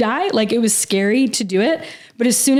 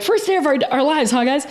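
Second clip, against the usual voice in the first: retold joke; 4 semitones higher than usual. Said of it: "It was so funny".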